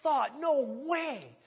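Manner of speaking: high, loud, passionate outburst; voicing Paul. Preacher voicing Paul's passion to the church, high and loud. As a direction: make it sound unthinkable not to preach. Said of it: "He was just like".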